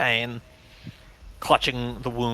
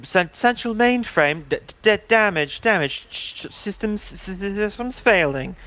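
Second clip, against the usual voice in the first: stuttering ship computer, raised pitch; glitching robot; 5 semitones higher than usual. Acted. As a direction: glitch and stammer like failing AI. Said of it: "Father's voice going".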